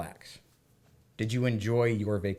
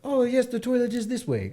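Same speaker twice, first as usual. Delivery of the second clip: much higher, sing-song lady voice; bookstore lady; 12 semitones higher than usual. Retold or imitated. Man imitating the bookstore lady pointing the way, high. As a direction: chirp it politely up high.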